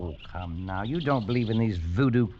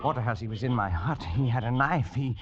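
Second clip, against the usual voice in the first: a frightened man after the knife; shaken fear. Acted. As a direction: gasp out what happened. Terrified recounting of attack.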